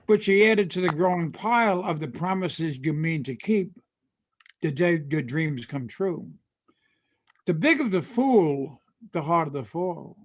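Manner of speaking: lively rhythmic recital of lyric lines; storytelling poem recital; poem reading. Acted. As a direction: read it like a country ballad spoken. Reads cento poem from lyrics.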